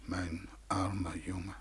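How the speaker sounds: whispered pity. Acted. God pitying his poor boy, in a whisper. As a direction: breathe it out with pity.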